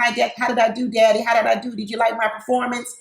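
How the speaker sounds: a hint of a little girl seeking praise; mock childish plea for approval. Brandy running over to her daddy, lightly girlish. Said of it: "like the little girl running over to her daddy".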